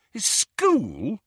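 high, rising disbelief; scornful, disbelieving echo; incredulous question. Acted. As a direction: query it as if it were absurd. Ron mocks Harry's Hogwarts theory.

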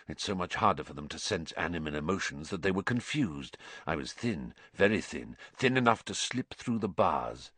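quiet, inward confession; haunted Sirius Black. Acted. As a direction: recount it softly, haunted by the memory.

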